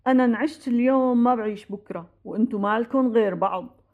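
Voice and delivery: low, measured retelling of a father's counsel; lightly voiced solemn father; father's parting advice. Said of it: "وقتها قالنا".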